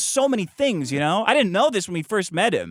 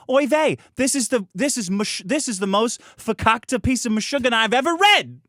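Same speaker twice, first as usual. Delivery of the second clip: put-on Yiddish accent; 4 semitones higher than usual. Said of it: "and he'll say".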